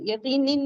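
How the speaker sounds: यकीनिन said with the ending in; wrong form यकीनिन with in at the end. Shown as a demonstration. Teacher to class, showing the wrong यकीनिन. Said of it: "नहीं कहेंगे".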